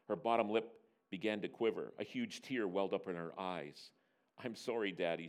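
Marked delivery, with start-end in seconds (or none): 4.4-5.3 soft, lowered tearful apology; mock sob. Daughter apologising to her father, softly feigned sob. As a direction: apologise quietly like a tearful child. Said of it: "she sobbed".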